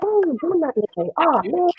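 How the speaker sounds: high-pitched pupil's grumble; imitating a kid who feels picked on; retold whiny protest.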